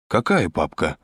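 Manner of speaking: mildly cheeky query; insolent. A narrator's reading. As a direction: play innocent, with a touch of insolence. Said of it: "нагло осведомился Кацман". (нагловато)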